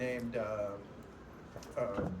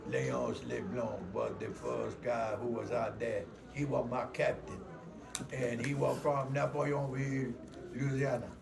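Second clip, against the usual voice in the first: Leonce Leblanc; 4 semitones lower, 3 dB quieter than usual. Retold or imitated. Voice actor recalling his riverboat captain, gruff Cajun accent. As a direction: talk like a gruff old Cajun. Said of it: "that's how he talked".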